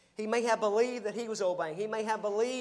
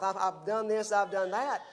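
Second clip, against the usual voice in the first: mock boasting. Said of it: "talking out of both sides of his mouth".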